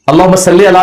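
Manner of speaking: "صلی" said as salle with an e ending; majhool vowel. Shown as a demonstration. Teacher allowing the looser durood reading, "صلی" as salle. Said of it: "لام زیر لے".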